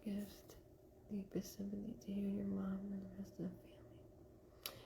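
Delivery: very soft whispered read-out; reading under breath. Real, not acted. Medium reads a condolence message to herself, whispering. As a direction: whisper it quickly to yourself.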